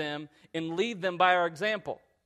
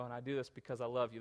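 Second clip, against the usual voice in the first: tender reassurance; 5 semitones lower, 10 dB quieter, faster than usual. Retold or imitated. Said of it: "I look at her and I go".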